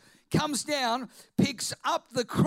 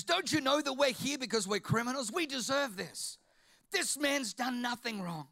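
rebuking; 4 dB quieter than usual. Retold or imitated. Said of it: "rebukes the other guy".

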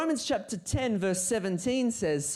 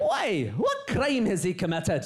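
Pilate demanding. Acted. Pilate challenging the shouting crowd, raised voice. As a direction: press the crowd for a reason. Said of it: "So I'm gonna be Pilate".

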